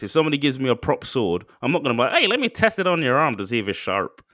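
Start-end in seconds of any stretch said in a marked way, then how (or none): 2.1-4.2 put-on light American accent; a casual hint of American accent. Mock prop-sword guy, mild American accent. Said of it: "why I did the American accent".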